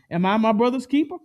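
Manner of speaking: mildly boastful retort; a hint of swagger on keeper. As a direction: Cain boasting to God. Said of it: "He's boastfully saying".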